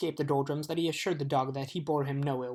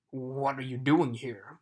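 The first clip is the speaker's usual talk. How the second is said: mild growl; 3 semitones lower, 3 dB louder, slower than usual. Acted. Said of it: "growled the watchdog".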